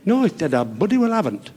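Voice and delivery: blunt answer with softened consonants; Harry's speech defect. Acted. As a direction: deny it through muddled consonants. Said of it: "a slight speech defect".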